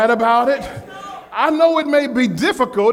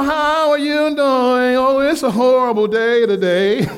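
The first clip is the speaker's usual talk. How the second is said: whiny voice; 3 semitones higher than usual. Retold or imitated. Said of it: "That's how they talk".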